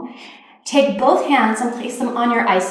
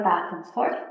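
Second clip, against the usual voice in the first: "back and forth" dropped soft and lower; fading softly; 4 semitones lower, 7 dB quieter than usual. Shown as a demonstration. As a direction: let "back and forth" fade out. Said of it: "the palms of the hands will rub together".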